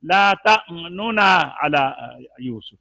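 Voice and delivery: तमन्नुना with two separate n's and a short "u" between; third way of reciting. Shown as a demonstration. Teacher showing the third reading, तमन्नुना with both n's sounded. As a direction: open up the double n in तमन्नुना as "nu-na". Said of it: "और तीसरा".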